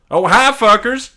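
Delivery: pitched high and loud, cheeky; squeaky villain greeting; high Tom Riddle voice. Acted.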